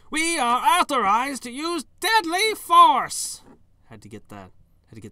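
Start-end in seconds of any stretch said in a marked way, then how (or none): 0.1-3.4 very high, shrill, booming goblin shout, loud and slow. Narrator voicing a goblin shouting orders at the player, shrill goblin voice. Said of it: "get that voice up an octave for this this goblin".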